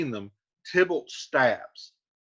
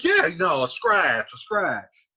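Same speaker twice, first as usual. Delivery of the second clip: sarcastic shrug; 4 dB louder, slower than usual. Retold or imitated. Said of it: "he's kind of being sarcastic".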